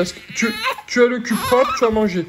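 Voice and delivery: wobbly laughing-crying questions; laughing through tears. Real, not acted. Parent asking baby sweetly, laugh-crying. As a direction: laugh while nearly crying.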